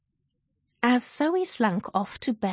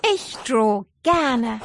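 put-on louder, slow girl's voice; cheerful and deliberate; Zoe's voice; 5 dB louder, slower than usual. Zoe keeps talking.

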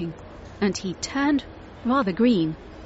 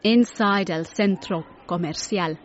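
plain reading voice

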